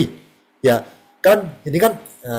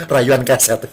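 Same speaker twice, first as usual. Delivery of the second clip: laughing; 4 semitones lower, 3 dB quieter, slower than usual. Real, not acted. Laughing at his own joke.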